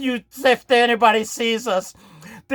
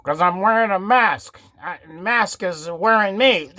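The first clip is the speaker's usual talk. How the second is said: muffled through a mask; 4 semitones lower than usual. Acted. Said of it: "why does your voice sound muffled like that".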